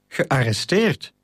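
a slow, relieved question. A narrator's reading. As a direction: let the tension drop as you ask it back. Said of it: "niet zonder enige opluchting".

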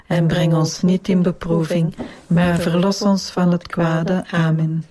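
measured rosary response in unison; praying aloud as a congregation; prayer recitation. Real, not acted. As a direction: recite it together, evenly and devoutly.

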